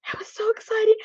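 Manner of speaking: high excited whisper. Real, not acted. Host reliving her thrill for viewers, whispered. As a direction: breathe it out, thrilled.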